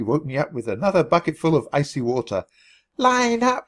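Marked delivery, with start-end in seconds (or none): 2.9-3.6 sharp high shout of a drill sergeant; yelled order. A narrator's reading. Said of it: "she yelled".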